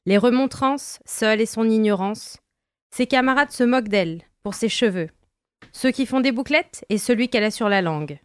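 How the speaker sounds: measured spoken-word reading; poem reading. Acted. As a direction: read it like a slam poem. Reads her written text aloud.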